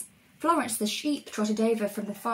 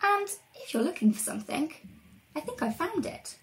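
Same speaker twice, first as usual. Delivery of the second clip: higher-pitched little character voice; Treacle; 6 semitones higher than usual. Acted. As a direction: offer the discovery in a high voice. Voice of Treacle, hinting at find.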